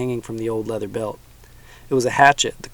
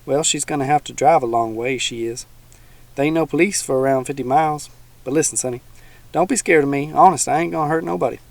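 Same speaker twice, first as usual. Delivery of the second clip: a hint of a folksy old swamp dweller; teasing old man, lightly voiced; 3 semitones higher than usual.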